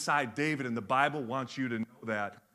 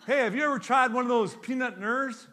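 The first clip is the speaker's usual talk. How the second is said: country guy; 9 semitones higher, 5 dB louder than usual. Retold or imitated. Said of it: "He goes".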